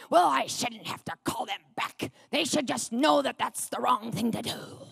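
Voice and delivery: put-on stubborn exasperation; mock worked-up protest. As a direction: imitate an indignant husband. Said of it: "he would get all worked up".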